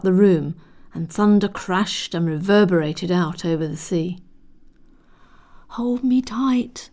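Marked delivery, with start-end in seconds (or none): 5.7-6.9 slow, breathy whisper; small voice. A narrator's reading. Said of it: "said a small voice".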